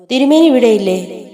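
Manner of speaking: a servant bursting in, anxious and hurried; panicked. A narrator's reading. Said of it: "പരിഭ്രാന്തനായി പ്രവേശിക്കുന്നു".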